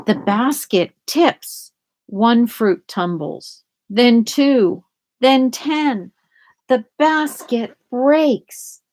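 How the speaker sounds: each line rising, slow on breaks; building suspense. A narrator's reading.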